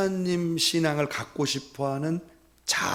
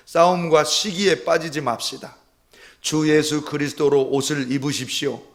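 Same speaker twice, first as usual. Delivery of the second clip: scripture reading; 2 semitones higher, 6 dB louder than usual. Shown as a demonstration. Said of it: "로마서 십삼 장 십삼 절과".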